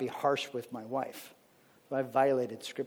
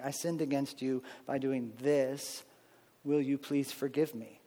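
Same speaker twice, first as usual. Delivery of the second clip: full confession; 5 dB quieter than usual. Shown as a demonstration. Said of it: "going all the way and saying".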